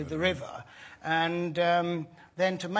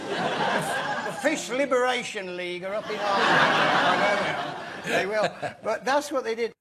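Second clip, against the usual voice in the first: laughing; 3 semitones higher, 3 dB louder than usual. Real, not acted. Joking about fish with laughter.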